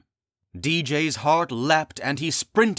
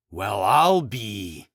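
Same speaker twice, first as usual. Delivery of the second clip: muttering; 2 semitones lower, 4 dB louder, much slower than usual. Acted. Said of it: "Francis muttered".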